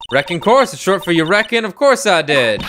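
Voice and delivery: lightly voiced, emphatic witness; folksy witness. Witness explains her slang to the court, lightly acted insistence. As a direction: explain the slang with a hint of character.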